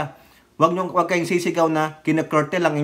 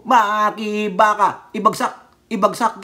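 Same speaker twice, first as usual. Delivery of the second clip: half-hearted rally chant, first word drawn out; mock protest shouting; slower than usual. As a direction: chant slogans like a pretend protester. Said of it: "Sisigaw lang naman ako dun".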